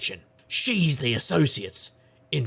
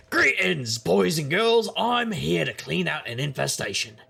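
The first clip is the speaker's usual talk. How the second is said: showman greeting; 5 semitones higher than usual. Acted. Detective addressing the ghost troupe like a showman. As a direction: announce it like a host.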